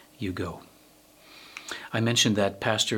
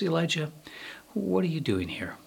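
higher-pitched, gently voiced question; gentle, not harsh; 6 semitones higher than usual. God greeting Elijah in the cave, gently, not harshly. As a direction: ask it without any harshness. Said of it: "but not in a harsh voice".

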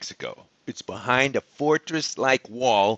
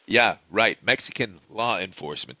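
dry, scoffing aside, pitched lower; sarcastic aside; 4 semitones lower than usual. Real, not acted. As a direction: drop the pitch and repeat it in disbelief.

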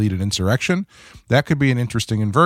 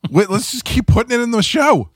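producer voice. Retold or imitated. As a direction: pitch it like an excited producer. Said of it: "they were like".

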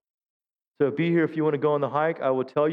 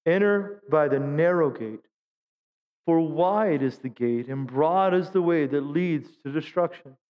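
scripture reading; slower than usual. Shown as a demonstration. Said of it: "So it is with God".

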